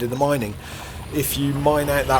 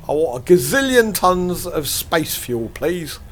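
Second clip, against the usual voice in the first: mock customer order; 5 semitones higher, 5 dB louder, slower than usual. Imagined order at fuel garage.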